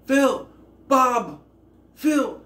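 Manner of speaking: put-on high, loud screaming of Phil and Bob in a British accent; shrieking Phil and Bob, British style; mock British scream. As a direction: yell the names like a frantic British heroine. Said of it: "it sounds like she's screaming for Bob".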